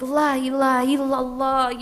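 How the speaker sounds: put-on Arab accent. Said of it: "thinking in my head I was gonna be like".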